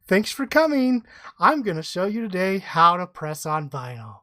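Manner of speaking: lightly imitated video hostess; Venetia. Husband imitating his wife's tutorial intro, light hostess voice. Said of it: "her Cooking with Venetia voice".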